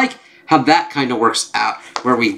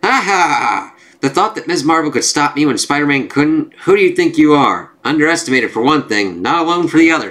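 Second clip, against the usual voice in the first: lightly voiced villain, pitched up; gloating villain; 4 semitones higher than usual. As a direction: crow a little over beaten foes. Gloating villain taunts the heroes.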